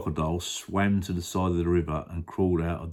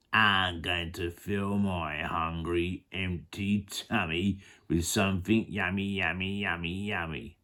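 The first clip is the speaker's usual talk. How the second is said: greedy crocodile; 5 dB quieter than usual. Acted. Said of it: "The enormous crocodile grinned".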